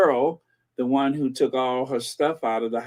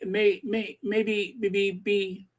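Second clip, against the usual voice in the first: mock Princess of Wales voice; 6 semitones higher, 4 dB quieter, slower than usual. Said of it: "the Princess of Wales".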